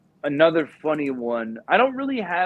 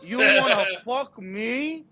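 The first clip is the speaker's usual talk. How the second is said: high, slow mock outrage; a dad losing it at his son; furious dad; 10 semitones higher, 3 dB louder, slower than usual. Dad yelling at son before teacher, mock rage. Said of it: "he's like".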